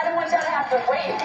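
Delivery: put-on excited kid. Breathless after chasing the van.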